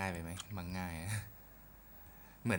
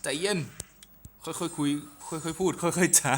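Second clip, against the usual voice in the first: loud plea; 10 semitones higher, 9 dB louder than usual. Real, not acted. Begs the game to calm down. (ตะโกนอ้อนวอนเสียงสูง ช้าๆ)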